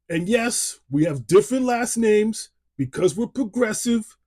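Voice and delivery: high, loud hammed-up Italian-American accent; over-the-top Italian wiseguy voice, played for laughs; terrible Italian accent. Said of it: "my terrible Italian impersonation".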